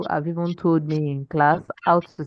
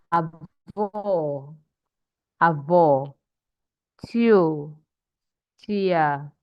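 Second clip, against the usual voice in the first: slow word-list reading; much slower than usual. Shown as a demonstration. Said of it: "let's read again".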